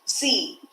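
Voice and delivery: "C" said like "see" with a long E; long E sound. Shown as a demonstration. Teacher giving an example of two E's, long vowel. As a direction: draw out the E in "C". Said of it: "it gives a long E sound".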